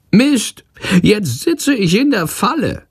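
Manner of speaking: very high, frantic small voice; high-pitched trapped creature swearing; cursing little creature. A narrator's reading. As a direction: curse in a squeaky panic. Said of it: "flucht er".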